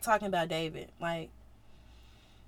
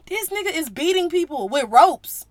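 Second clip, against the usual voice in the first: loud, higher excited retelling; 5 semitones higher, 7 dB louder than usual. Real, not acted. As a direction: tell it with rising excitement. Excited retelling of Jesus story.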